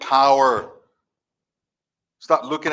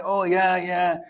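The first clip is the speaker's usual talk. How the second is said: appeasing yeahs; much slower than usual. Retold or imitated. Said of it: "to appease them".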